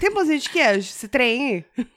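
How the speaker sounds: Mineiro imitation slipping into Carioca; mineiro que sai carioca. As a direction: attempt a Minas accent, badly faked. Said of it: "aí tá muito carioca". (imitação de mineiro meio carioca)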